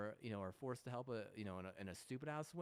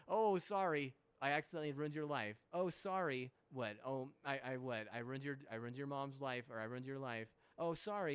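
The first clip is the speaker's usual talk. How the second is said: mock apology. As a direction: whine out a fake sorry to mock them. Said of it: "it's like".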